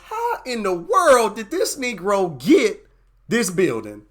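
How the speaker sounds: rising, incredulous mock shop owner growing into a shout; suspicious shop owner. Chinatown shop owner scoffing at a new Black business, building to a mock shout. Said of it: "The first thing they gonna wonder is".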